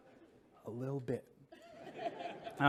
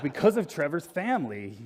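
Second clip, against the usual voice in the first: laughing; 3 semitones higher, 5 dB louder than usual. Retold or imitated. Punchline to manager, laughing.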